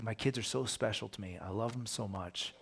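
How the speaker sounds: doting father. Retold or imitated. Job voiced doting on his kids.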